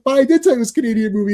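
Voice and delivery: mock defensive retort. Host defending his pick to friend, mock defensive retort. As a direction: rush out a light self-defence. Host's retort in retold argument.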